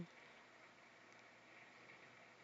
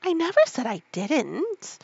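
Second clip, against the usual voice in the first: higher, louder interruption; quick protest; 7 semitones higher, 6 dB louder than usual. Acted. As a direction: cut in defensively. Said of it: "interrupted Alice".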